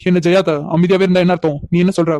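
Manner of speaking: loud, pressing demand to a silent aunt. Acted. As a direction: push her loudly for an answer.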